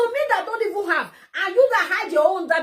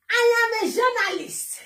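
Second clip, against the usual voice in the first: slow, higher-pitched mock quote; mocking imitation; 4 semitones higher than usual. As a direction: mimic a rival's self-important claim. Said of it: "I don't know how he do that his mouth".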